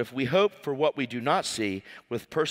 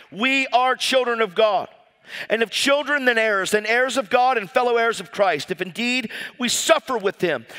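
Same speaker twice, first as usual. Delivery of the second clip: raised, insistent preacher's delivery; fervent preaching; 6 semitones higher, 3 dB louder than usual. Real, not acted. Preacher urging the congregation to live by the Spirit, fervent. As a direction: preach it with rising conviction.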